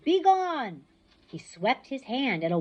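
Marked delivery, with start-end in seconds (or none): 0.0-0.8 high, loud bellow. Acted. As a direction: bellow at the crowd. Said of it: "Ares bellowed".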